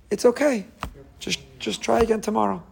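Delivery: put-on parent softly forgives the child, pitched high; soft and high, letting it go; gentle forgiveness. Parent forgives the child who never calls, soft high voice.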